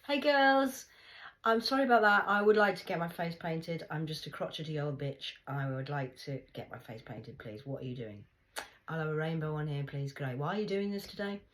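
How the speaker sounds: loud, high, overly polite; overly sweet voice. Retold or imitated. A speaker acting her chat with the ladies, loud and sugary. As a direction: gush it out apologetically.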